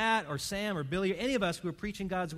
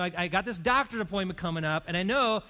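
anxious patient; 3 semitones higher, 5 dB louder than usual. Retold or imitated. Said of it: "the person who says".

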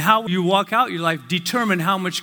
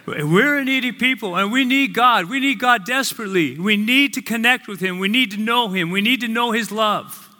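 rising preaching fervor; 5 semitones higher than usual. Real, not acted. Preaching builds after a laugh.

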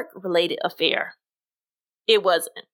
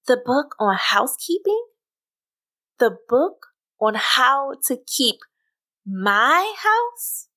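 "my" leaned on and raised; stress on MY; 3 semitones higher than usual. Acted. To Johnny, outraged, stressing my. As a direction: hit the word my house hard. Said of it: "I say with emphasis on my".

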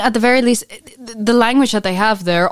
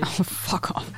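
laughing; 11 dB quieter than usual. Real, not acted. Laughing at teasing.

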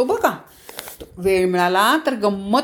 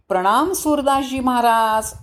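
humble, reverent greeting; 3 semitones higher than usual. Acted. King bowing to the blind saint, very humble. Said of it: "जो अत्यंत विनम्र होता राजा".

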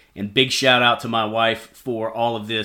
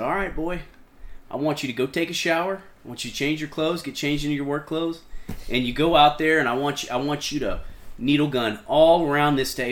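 put-on old captain's orders; 4 semitones higher, faster than usual. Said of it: "And he told me, he said".

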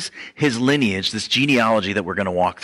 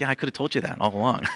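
laughing; 3 semitones higher, 3 dB quieter, much faster than usual. Real, not acted. Mocking obvious ancestry result.

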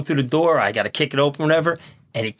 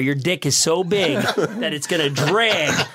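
laughing; slower than usual. Retold or imitated. Punchline of his own story.

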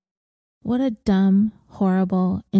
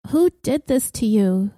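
pleading. Acted. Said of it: "she pleaded".

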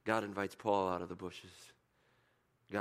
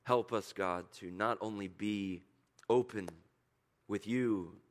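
prayer. Acted. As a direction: pray slowly for the room. Closing prayer.

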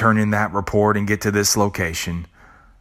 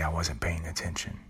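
much softer, a small ashamed confession; sheepish admission; 3 semitones lower, 12 dB quieter than usual. Pretend. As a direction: mumble it like a caught-out child. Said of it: "you'd say".

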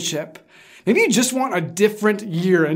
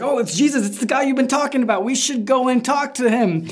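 excited disciples; 6 semitones higher than usual. Retold or imitated. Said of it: "they're like".

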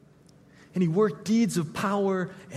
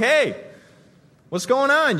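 raised, higher call to a stranger; 6 semitones higher, 4 dB louder than usual. Pretend. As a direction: shout a question down the street. Calling to passersby in street.

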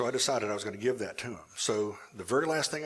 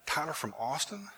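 higher, rising "Tyler from Austin?"; surprised question; 5 semitones higher, 3 dB quieter than usual. Retold or imitated. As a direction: ask "Tyler from Austin?" in disbelief, pitch climbing on AUSTIN.

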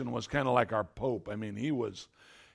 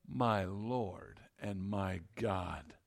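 hushed, slow, awed; a low, breathless my Lord and my God; awed exclamation; 8 semitones lower, 12 dB quieter, much slower than usual. Acted. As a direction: whisper it in astonished awe. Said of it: "Thomas exclaimed".

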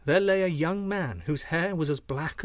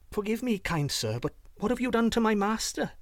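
higher-pitched pleading goose; gander's voice; 7 semitones higher than usual. A narrator's reading. The gander questions a stranger about his master, higher-pitched goose voice. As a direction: ask timidly in a raised voice. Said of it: "asked the gander".

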